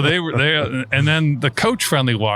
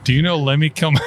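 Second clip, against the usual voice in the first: asked louder, with exasperation; loud insistent question; 3 semitones higher, faster than usual. Real, not acted. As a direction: repeat it louder, pressing. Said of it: "Try asking me a third time".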